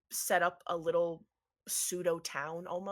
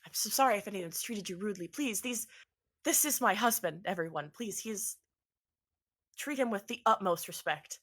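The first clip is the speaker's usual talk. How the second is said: lightly voiced anxious wife; 3 semitones higher than usual. GM voices Imelda.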